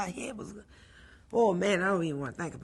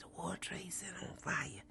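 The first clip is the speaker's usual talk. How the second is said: breathless whispered news; 11 dB quieter than usual. Retold or imitated. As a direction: whisper it, too shocked for voice. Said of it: "why are you whispering?".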